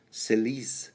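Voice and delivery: Selice with a long ee; French pronunciation. Shown as a demonstration. Host listing French family names, French pronunciation. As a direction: say Selice as "suh-leece". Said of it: "give you the French pronunciation".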